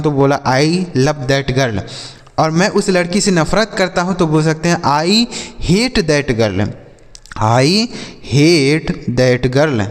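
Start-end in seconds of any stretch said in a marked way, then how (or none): 0.5-1.8 slow model sentence. Shown as a demonstration. 4.8-9.9 slow model sentence. Shown as a demonstration. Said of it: "इस तरीके से इसे भी".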